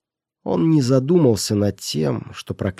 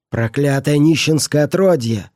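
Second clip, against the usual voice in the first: higher, louder angry outburst; furious exclamation; 4 semitones higher, 5 dB louder than usual. Acted. Miser curses the beggar boy, furious and loud. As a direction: spit the curse at the child. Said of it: "воскликнул он".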